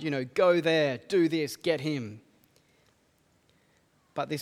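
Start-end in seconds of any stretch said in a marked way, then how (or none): 0.2-2.2 mock bossy commands. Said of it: "bossing the Jewish elders around".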